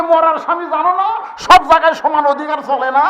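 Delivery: loud mock-scolding wife; wife retorting. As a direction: snap back at the husband. Wife answering husband back.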